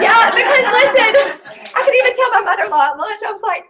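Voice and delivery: fighting back tears while talking; emotional, near tears; tearful. Real, not acted. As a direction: voice choking up, high and strained. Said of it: "I'm the crier".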